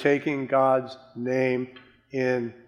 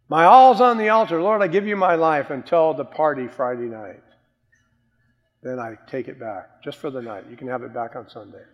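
mock hypocrite prayer; 4 dB louder, faster than usual. Mocking a believer who takes his life back Friday. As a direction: ham up a fickle believer's prayer.

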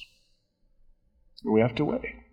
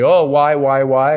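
put-on louder nagging child's whine; whining child; 5 dB louder than usual. Parent imitating a child asking why, louder whine. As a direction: nag like a kid asking why. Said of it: "your children say".

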